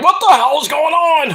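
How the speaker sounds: imitating a flabbergasted wrestler. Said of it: "like, flabbergasted".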